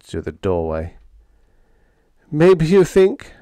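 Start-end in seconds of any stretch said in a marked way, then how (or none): 2.3-3.3 high, loud, drawn-out wail. A narrator's reading. Sparks, told to be sick, wailing back. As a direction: wail it slowly in misery. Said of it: "I wailed".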